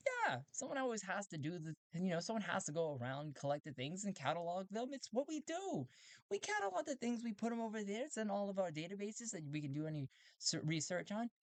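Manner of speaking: very high, squeaky robot voice; a proud robot explaining its purpose; collector robot. Acted. Robot explaining its collecting to Talti, squeaky high voice.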